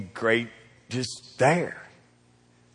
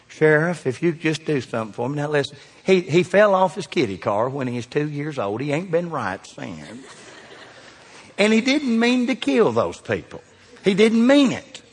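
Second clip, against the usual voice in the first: lightly voiced mother begging, pitched up; pleading mom. A hint of a mom begging the sheriff for her boy. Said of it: "Who talks like that? A mom".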